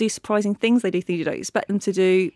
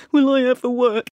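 anguished lament; 5 semitones higher, 5 dB louder than usual. Retold or imitated. Anxious actor's lament.

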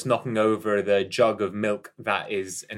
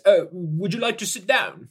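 a lightly voiced gentle old man; old man's polite offer; kindly old man; 9 semitones higher, 4 dB louder than usual. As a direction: offer the seat like a kind grandfather. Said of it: "he looks up at you and he says".

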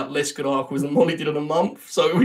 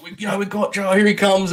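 grand host intro; 3 semitones higher than usual. Retold or imitated. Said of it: "it was very grand initially".

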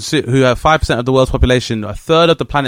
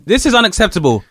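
enlightened white voice; 7 semitones higher than usual. Retold or imitated. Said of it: "from an enlightened white voice".

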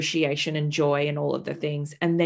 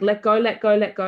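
loud retold urging; insistent, repeated coaching call; 2 semitones higher, 6 dB louder than usual. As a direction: imitate someone urging a push in labour. Midwife urging her in labour.

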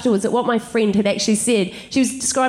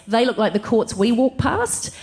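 slow quote; 2 semitones lower, slower than usual. Retold or imitated. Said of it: "what he actually said was".

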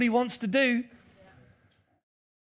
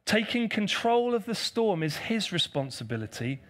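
said slowly and deliberately, softer; 3 dB quieter than usual. Shown as a demonstration. Preacher repeating the point slowly for the congregation. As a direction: spell it out word by word. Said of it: "And I'll say it slowly".

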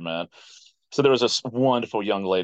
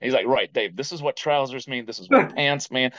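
friend correcting; 4 semitones higher than usual. Retold or imitated. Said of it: "And Jess was like".

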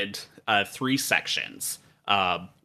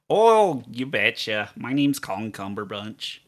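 Colin Cumberbunch. Acted. Villain introduces himself to the hosts, cartoonish Minnesotan. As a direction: lay on a cheery cartoon Minnesotan accent. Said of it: "Cartoonish Southern and cartoonish Minnesotan".

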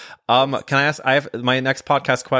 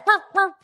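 mock dog barks. Imitating the dog barking.

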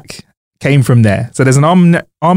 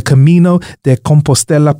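a touch of Italian accent; lightly Italian-accented pronunciation. Real, not acted. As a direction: slip into an Italian accent for the name. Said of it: "I said that in Italian accent".

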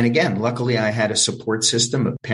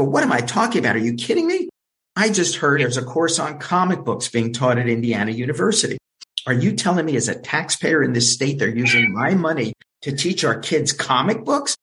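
higher, indignant prank rant without real volume; mock outrage; 3 semitones higher than usual. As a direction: throw the reporter's question back, acting affronted. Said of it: "I started screaming at him".

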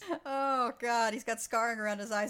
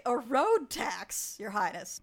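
slow sly aside; 4 dB louder, slower than usual. Retold or imitated. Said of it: "and say".

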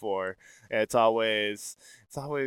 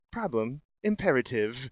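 calm ship computer. Shown as a demonstration. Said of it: "My, my computer voice?".

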